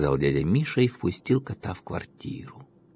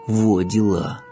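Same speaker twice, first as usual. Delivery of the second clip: louder, amazed exclamation; 6 dB louder, much slower than usual. A narrator's reading. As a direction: sound truly amazed. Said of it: "изумился Славка".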